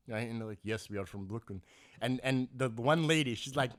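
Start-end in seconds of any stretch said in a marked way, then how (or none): 0.6-1.6 low, soft, terse reply; understated Russian impression, pitched down; imitated Russian patron. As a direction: play a reserved Russian answering briefly. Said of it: "that fucking Russian at the range".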